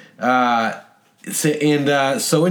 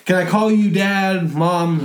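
put-on higher-pitched, eager-to-please kid; perfect kid; 6 semitones higher than usual. Perfect exchange kid greeting his host family, sweetly polite and high. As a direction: play the polite model child, pitched up. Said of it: "he's like the perfect kid".

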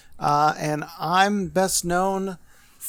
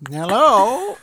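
bright hello; 7 semitones higher, 5 dB louder than usual. Shown as a demonstration. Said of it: "That's better".

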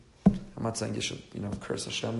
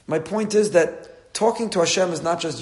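ordinary talk, nothing marked

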